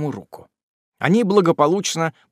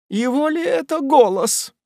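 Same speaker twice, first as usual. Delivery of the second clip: much higher, amazed cry; astonished exclamation; 12 semitones higher than usual. A narrator's reading. Aunt exclaims on hearing Tupman's voice. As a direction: gasp it out in disbelief. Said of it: "воскликнула незамужняя тётка".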